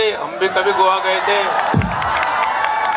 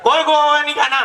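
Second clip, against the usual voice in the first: stern refusal; 6 semitones higher than usual. Acted. Father refuses daughter.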